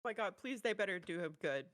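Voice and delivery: loud, emphatic fan begging; excited pleading. Real, not acted. Fan hoping his favorite gets a good trailer, excited pleading. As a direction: plead loudly for your favorite.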